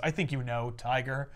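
soft, low knowing purr; sultry hush. Retold or imitated. Mary Jane revealing herself to Peter, soft sultry. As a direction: lean in with a soft hint of tease. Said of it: "And she says".

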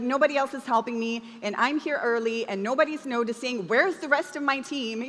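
a touch of mock complaint; lightly hammed-up martyr; self-pitying victim. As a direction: play the overworked volunteer, mildly whining.

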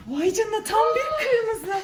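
yüksek sesle şaşkınlık, gülerek; şaşkın nefes ve sevinç. Real, not acted. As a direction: nefesi kesilmiş gibi şaşır, sonra sevin. Çark sonucu kırmızı çıkınca. (şaşkınlıkla nefes alıp gülmek)

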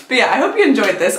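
saying it through a laugh. Real, not acted. Laughing while signing off.

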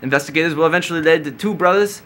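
hammed-up British accent on a news item; bad British accent. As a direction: try a clumsy British accent. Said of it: "I'll try to read this in a British accent".

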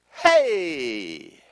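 a sudden loud "Hey!"; mock angel shout. Angel bursting into Mary's kitchen, mock shout. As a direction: burst in calling out.

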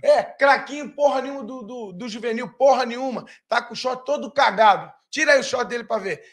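imitated jeering. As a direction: jeer at the kid player from the stands. Acts out fans jeering the junior player.

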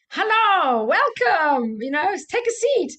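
loud, high, friendly German-Austrian welcome; Marie's Austrian accent. Retold or imitated. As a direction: bellow a cheerful greeting in a German-Austrian accent. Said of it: "she bellows out with this, like, German, Austrian accent".

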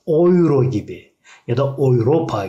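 "euro" and "Europa" said OY-ro, oy-RO-pa; careful German oy in "euro" and "Europa". Shown as a demonstration. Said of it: "oy şeklinde okunuyor".

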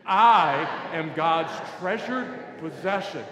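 very loud, slow declaration; like you mean it. Shown as a demonstration. Preacher urging the congregation to mean it, loud emphatic declaration. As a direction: proclaim it with full conviction, each word stretched. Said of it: "Now say it like you mean it".

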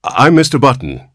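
high, forced-out words; strained. A narrator's reading. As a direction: barely get it out. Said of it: "he managed to articulate".

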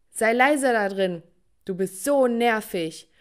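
loud, slowed complaint through the door; annoyed yell. Acted. Family member hammers on the door, loud annoyed call. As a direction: shut the singer up.

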